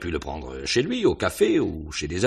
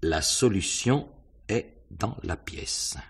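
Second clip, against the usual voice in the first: reading the note slowly; 3 semitones higher, slower than usual. Acted. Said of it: "C'est écrit en lettres d'imprimerie".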